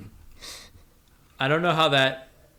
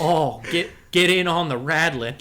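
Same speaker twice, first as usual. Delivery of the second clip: hammed-up cowboy character; slower than usual. The Rattler praising his beans, hammed-up cowboy. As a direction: savour it as a folksy cowboy.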